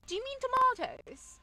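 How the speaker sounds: high, loud, imitated snooty correction; mock the shop worker pointedly correcting a customer. Shop worker corrects Canadian friend's accent, high mocking imitation. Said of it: "correct her on her accent".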